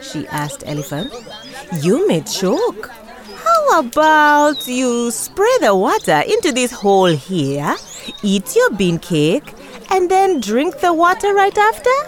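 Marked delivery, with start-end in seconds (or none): 1.9-12.0 high, urgent little tortoise; a high, eager tortoise pleading for help. A narrator's reading. Tortoise figure voice.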